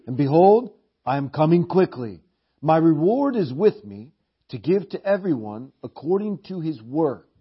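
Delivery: loud, ringing reading of Jesus' words; proclaimed scripture. Acted. Preacher reading Jesus' promise aloud to the church, proclaiming. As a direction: proclaim it to the congregation.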